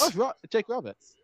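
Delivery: high, surprised recognition. Real, not acted. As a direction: react as if caught off guard by who it is. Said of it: "Why did you sound so surprised?".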